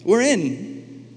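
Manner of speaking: high, eager yes from the people; the people accepting God, high and eager; eager people's yes. Retold or imitated. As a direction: blurt it out keenly like a bride saying yes. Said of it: "his family's like".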